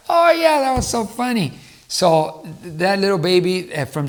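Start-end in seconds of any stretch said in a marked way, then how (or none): 0.1-1.5 put-on high, delighted kid reaction; excited child. Child loving the repeated story part, high and excited. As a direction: squeal it like a thrilled little kid.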